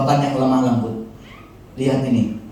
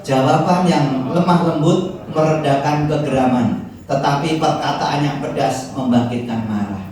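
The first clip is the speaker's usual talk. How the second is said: reading scripture aloud; 4 dB louder than usual. Real, not acted. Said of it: "baca sama-sama".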